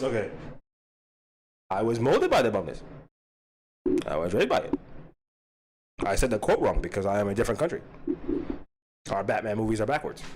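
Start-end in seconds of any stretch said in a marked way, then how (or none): 1.7-10.2 low, foreign-sounding puppet character; new puppet voice. Acted. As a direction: play a foreign puppet, pitched down. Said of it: "That's gonna be a new voice".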